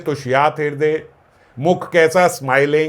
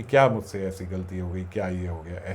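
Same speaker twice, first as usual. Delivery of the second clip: put-on like a child; 7 semitones lower, 8 dB quieter than usual. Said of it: "एकदम बच्चे की तरह".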